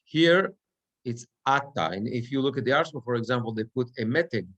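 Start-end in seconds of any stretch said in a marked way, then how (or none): 1.5-1.9 "Ata" stressed on its first syllable, A-ta. Shown as a demonstration. Teacher showing the sentence-end form, front-stressed "Ata". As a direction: hit the opening A of "Ata". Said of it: "the accent falls on the Aleph".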